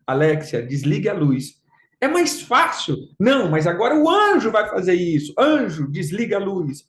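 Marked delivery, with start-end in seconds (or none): 0.1-1.6 comando grave e controlado à Alexia; dê a ordem em tom baixo, como a um aparelho; comando à assistente. Retold or imitated. Comando à assistente, contraste com anjo. 5.4-6.8 ordem encenada a um anjo; paródia de comando. Retold or imitated.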